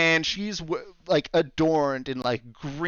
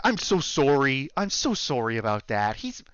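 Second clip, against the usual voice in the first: put-on Canadian accent. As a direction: apologize like an earnest Canadian shopkeeper. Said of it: "I am trying to do a Canadian accent".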